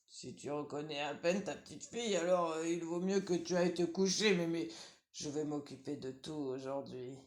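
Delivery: wolf pretending to obey; wolf faking sweetness. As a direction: purr it like a cunning wolf.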